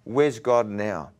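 slow, pointed mock challenge; devil's slow taunt. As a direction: draw the question out as the taunting devil. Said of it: "it's like the devil said".

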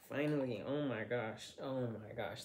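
winded after the struggle; out of breath. Real, not acted. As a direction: catch your breath after opening a jar. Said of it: "that took some energy".

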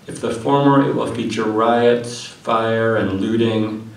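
measured declaiming with pauses between phrases; poetry reading. Acted. Poet reads Red Epic to an audience, poetry reading. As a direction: read it out as verse, each line set apart. Reads next poem aloud.

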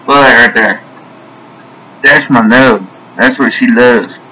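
talking round a lip of dip; mouth full. Real, not acted. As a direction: tobacco tucked in the lip. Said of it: "So let's pack a lip".

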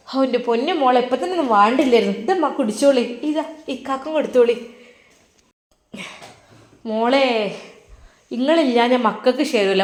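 chatty mother explaining on the phone. Acted. Mother receiving tea. (മകനോട് ഫോണിൽ സംസാരിക്കുന്ന ഉമ്മ, അൽപം ഉച്ചത്തിൽ)

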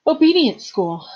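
out of breath, gasping words; breathless. A narrator's reading. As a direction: say it still panting. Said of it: "she said breathlessly".

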